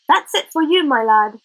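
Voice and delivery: high, loud telling-off; furious teacher. Acted. Missus Gribbins furious at Roger after the bite, loud. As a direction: land the punishment hard.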